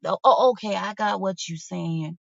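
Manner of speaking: mock understanding; sarcastic realization. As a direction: pretend to finally get it, dripping sarcasm. Sarcastic retort continues.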